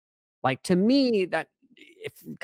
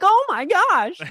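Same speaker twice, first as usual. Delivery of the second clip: much higher, louder, giddy squeal; excited high voice; 8 dB louder, slower than usual. Retold or imitated. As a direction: let the voice jump way up with excitement. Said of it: "as I get more excited, I'm like".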